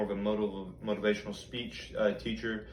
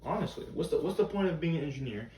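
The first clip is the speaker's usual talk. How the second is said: lightly acted teacher giving a pep talk; motivational teacher. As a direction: talk to students like an earnest motivational speaker, only lightly performed. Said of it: "auditioning as a teacher".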